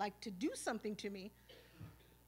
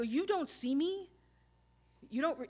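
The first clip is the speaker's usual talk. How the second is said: offended and hurt, louder and higher; a man demanding to be seen, indignant and louder, higher; 4 semitones higher, 5 dB louder than usual. Retold or imitated. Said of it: "it was like that kind of reaction".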